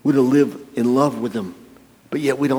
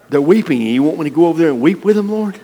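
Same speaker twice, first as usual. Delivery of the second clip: mock reluctant whine; 5 semitones higher, 4 dB louder than usual. Reluctant churchgoer to God.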